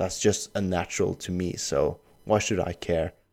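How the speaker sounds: ordinary delivery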